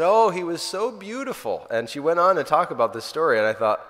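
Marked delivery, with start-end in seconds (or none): 0.0-1.7 much higher and louder, swept up in awe; old neighbour Mary marvelling at Jesus' face; rapt old woman. Retold or imitated. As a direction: gush it out like she's seeing him again. Elderly neighbour recalling seeing Jesus.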